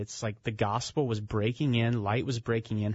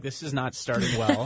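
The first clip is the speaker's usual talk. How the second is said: laughing aside. Retold or imitated. Narrator's inner reaction, laughing.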